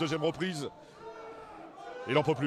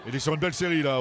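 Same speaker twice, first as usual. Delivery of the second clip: louder, rising commentary; excited; 5 dB louder than usual. Real, not acted. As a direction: call the flurry with energy. Boxer landing a strong combination.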